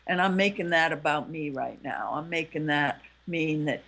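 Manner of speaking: low-key, tender appeal to a partner. Acted. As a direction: gently own up to a hurt. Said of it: "you're coming from a softer voice".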